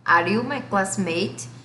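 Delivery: model question. Shown as a demonstration. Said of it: "Como é que você pergunta".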